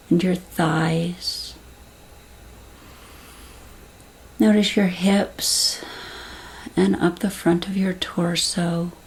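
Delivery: calm, unhurried meditation voice with long pauses; guided visualization. Acted. Guide soothing listeners as they settle with closed eyes, calm and unhurried.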